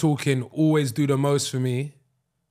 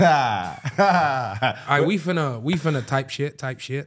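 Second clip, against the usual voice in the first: mock New York American accent; a hammed-up New York street voice; much slower than usual. Showing off his American accent to his co-host. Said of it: "I'm good at American accents".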